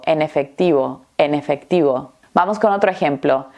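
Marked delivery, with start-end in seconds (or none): 0.0-2.1 EN EFECTIVO joined as "e-nefectivo"; mots liés. Shown as a demonstration. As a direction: carry the N of "En" into "efectivo". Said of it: "Parece que estamos diciendo".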